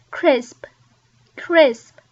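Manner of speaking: crisp repeated with a crisp sp ending; crisp, slowly and cleanly; crisp practice. Shown as a demonstration. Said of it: "practice this in the mirror".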